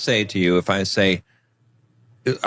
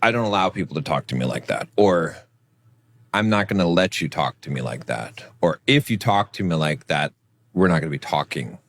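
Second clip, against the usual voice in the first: firm boundary; 5 semitones lower than usual. Shown as a demonstration. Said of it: "those are still even more powerful".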